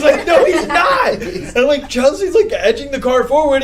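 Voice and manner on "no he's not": high, loud retold contradiction; acted-out shouting match; screaming back. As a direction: yell it back, close to laughing. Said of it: "We're just screaming at each other".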